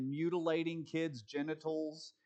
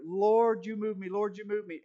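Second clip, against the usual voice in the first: mock worship leader, higher and louder, whipping up the crowd; hammed-up worship leader; 4 semitones higher, 5 dB louder than usual. Preacher mocking a worship leader working the crowd, hammed-up and louder.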